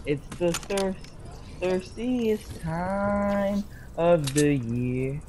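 ad voice. Retold or imitated. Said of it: "LeBron James commercial".

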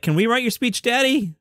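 a hint of whiny daughters asking Daddy; imitating teen daughters.

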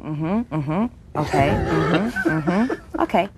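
curt phone acknowledgements. Retold or imitated. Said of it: "Lisa's on the end of the phone".

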